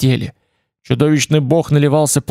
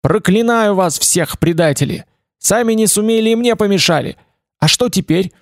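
higher, raging outcry; furious cry; 6 semitones higher than usual. Acted. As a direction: curse them all in fury. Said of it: "вскричал в ярости".

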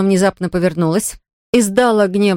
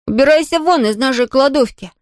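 higher, commanding shout; 6 semitones higher than usual. Acted. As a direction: order it out, voice raised. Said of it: "крикнул Том".

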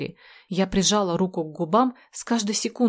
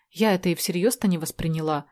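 ordinary delivery

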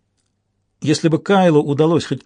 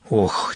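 soft tired groan, lower; quiet weary sigh; 5 semitones lower, 4 dB quieter than usual. Acted. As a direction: sigh out the exhaustion. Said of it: "тихо проговорил Уинтроу".

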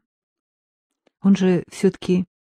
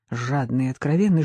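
ordinary delivery

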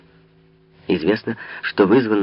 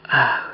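whispered gasp; 4 semitones higher than usual. A narrator's reading. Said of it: "прошептала Анна Австрийская".

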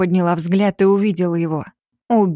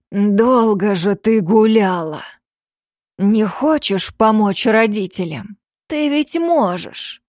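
rough thundering voice; slower than usual. Acted. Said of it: "низкий хриплый голос раскатился".

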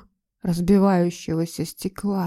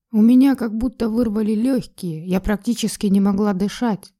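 ordinary delivery

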